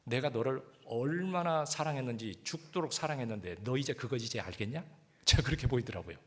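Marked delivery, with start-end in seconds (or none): 0.1-4.8 slow, gentle reading of the Lord's words; slow tender question. Shown as a demonstration. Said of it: "그 말씀이 그렇게 들리는 게 뭐라고 들리냐면".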